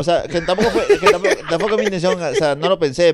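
giggling excuse; laughing. Real, not acted. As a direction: laughs it off embarrassed.

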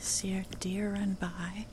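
unhurried nature-walk narration with long pauses; guided meditation. Acted. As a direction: lead listeners along the path, one short phrase at a time.

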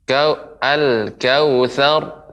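slow, drawn-out Quran recitation; slow demo recitation. Shown as a demonstration. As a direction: draw out al-kautsar slowly. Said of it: "Nah, demikian, Ibu, diulangi".

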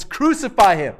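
a mild mock yell of the crowd; retold crowd crying out for crucifixion; mock crowd shout. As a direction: call it out like the angry mob, not full force. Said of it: "when they shout out to the Romans".

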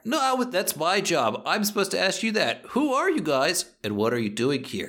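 high, indignant foreman voice; a site boss insisting it's his job to ask. Acted.

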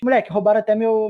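usual speaking voice

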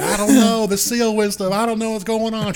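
high mock clueless voice; clueless self. Answering the friend in the car, high mock clueless. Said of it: "I was like".

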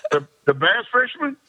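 half laughing in disbelief. Retold or imitated. Man asking vendors if they mean the fisherman, laughing. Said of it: "I go".

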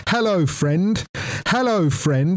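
high repeating toy voice; talking Winnie the Pooh. Retold or imitated. Doll keeps calling through the wall, imitated high toy voice. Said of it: "still hear the fucking thing coming through the wall".

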